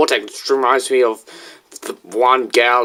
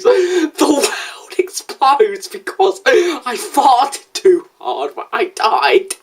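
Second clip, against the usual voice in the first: high squeaky voice; 11 semitones higher, slower than usual. Acted. Kid lists silly dying scenarios.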